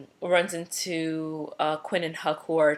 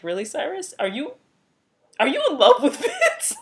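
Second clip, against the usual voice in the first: high teasing question through laughter; giggling mockery, pitch way up; laughing; 13 semitones higher, 6 dB louder than usual. Mocking Cyrus, laughing.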